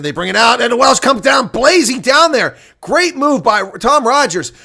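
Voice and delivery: rising rugby commentary that peaks and then groans; excited play-by-play. Acted. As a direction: call the break like the crowd's on its feet. Live play-by-play of Welsh attack.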